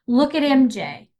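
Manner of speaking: scolding. Retold or imitated. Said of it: "And for me to say".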